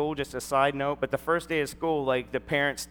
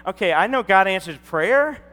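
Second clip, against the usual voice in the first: high, loud, thrilled disbelief; amazed excitement; 6 semitones higher, 12 dB louder than usual. Retold or imitated. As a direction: marvel at how fast the prayer was answered. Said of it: "I'm like".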